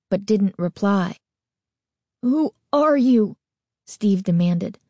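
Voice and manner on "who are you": higher, shaky frightened demand; trembling voice. A narrator's reading. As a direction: demand it while scared. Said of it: "his voice trembling".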